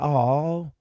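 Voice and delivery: put-on baby voice. Shown as a demonstration. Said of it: "that's the voice you use for a baby".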